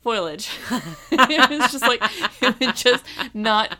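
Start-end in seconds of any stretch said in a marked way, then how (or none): 0.0-0.5 Foliage said as FOY-lij, two syllables; mispronounced foliage. Retold or imitated. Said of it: "And she's like".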